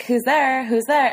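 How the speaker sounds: lightly imitated Valley Girl. Host recalls a school poetry reading, light Valley Girl imitation. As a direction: toss it off as a mock Valley Girl. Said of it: "we read it as Valley Girls".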